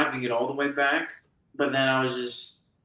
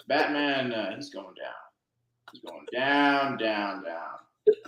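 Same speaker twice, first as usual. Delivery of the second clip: Jack Nicholson as Joker; 3 semitones lower, 4 dB quieter, slower than usual. Pretend. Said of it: "I'm Jack Nicholson".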